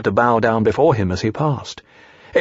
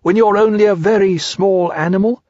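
sniffing Piglet; 8 semitones higher, 4 dB louder than usual. A narrator's reading. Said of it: "sniffing slightly".

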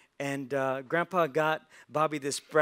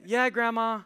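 put-on cornered boy; 7 semitones higher, 5 dB louder than usual. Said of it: "And Bobby's like".

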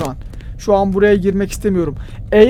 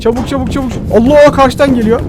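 panicked, louder outburst; frantic fear as it closes in; being chased; 3 semitones higher, 3 dB louder than usual. Real, not acted. Monster coming at him.

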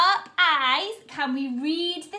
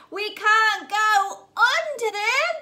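higher, louder, slow storybook drama; building dramatic refrain; 8 semitones higher, 4 dB louder, slower than usual. Acted. Teacher reading the lamb refrain to children, building slow and loud. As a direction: build the suspense, drawn out.

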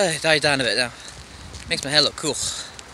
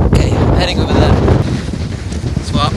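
raised voice over wind; 5 dB louder, faster than usual. Real, not acted.

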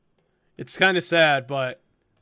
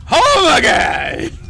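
high, drawn-out holler; drunken shout; 8 semitones higher, 7 dB louder, much slower than usual. Acted. Drunk girl hollers about coming home, long loud shout. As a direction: bellow it slowly.

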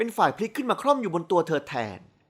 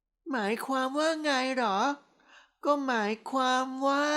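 put-on tipsy girlish echo; 7 semitones higher, slower than usual. A narrator's reading. Tipsy wife echoes his question.

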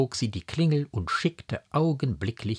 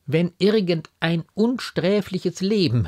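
high, louder pained appeal; raised, impassioned lament; eloquent anguish; 10 semitones higher, 6 dB louder than usual. A narrator's reading. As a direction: cry out your plea with pained eloquence. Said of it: "rief sie mit der Beredsamkeit des Schmerzes".

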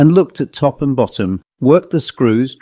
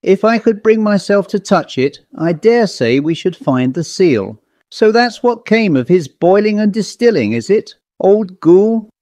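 squire explaining the horror, raised pitch; agitated squire; 2 semitones higher than usual. Acted.

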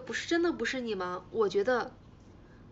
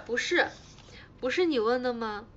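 usual speaking voice

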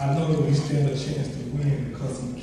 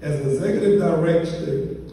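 formal bio reading. Real, not acted. Reads out the honoree's biography.

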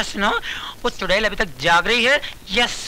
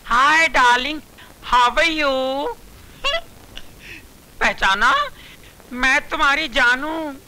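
flirty; 3 semitones higher than usual. Acted.

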